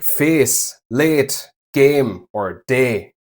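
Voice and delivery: Irish-style pure, unglided "ay" vowels; Irish-style accent. Shown as a demonstration. Teacher shows learners the vowel in an Irish accent. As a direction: say face, late, game, day with a steady Irish "eh". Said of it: "or Irish accent".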